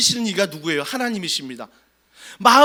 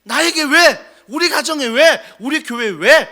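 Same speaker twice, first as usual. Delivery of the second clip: anguished why; 3 semitones higher, 6 dB louder than usual. Acted. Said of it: "늘 질문합니다".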